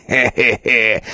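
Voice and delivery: raven's chuckle. A narrator's reading. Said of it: "посмеивался ворон".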